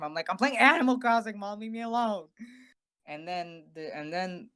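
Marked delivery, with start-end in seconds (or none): 0.3-2.3 annoyed brush-off. Retold or imitated. Brushing off mom in hospital.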